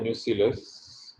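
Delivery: न्यूसीलस said as nyoo-see-lus, the classical British way; British pronunciation. Shown as a demonstration. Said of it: "classical बरतानवी लफ्ज".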